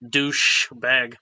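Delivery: "Douche bag" with a long sh, then a break; extra-enunciated hiss. Shown as a demonstration. Californian showing the speech habit, over-enunciated "Douche bag". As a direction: separate "Douche" and "bag" crisply. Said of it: "extra enunciate our S's".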